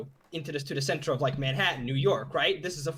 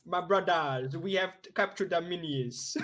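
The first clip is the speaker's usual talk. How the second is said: put-on a light Swahili accent, laughing; 3 semitones higher than usual. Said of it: "say it in a, uh, Swahili accent".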